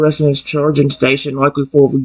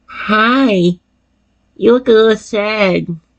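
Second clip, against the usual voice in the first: put-on warm, cheerful, high, gentle little-kid voice; 7 semitones higher than usual. A narrator voices the creature that turns to face the listener, soft, childlike, cheerful voice. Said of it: "You hear a soft voice, childlike, warm, and full of cheer".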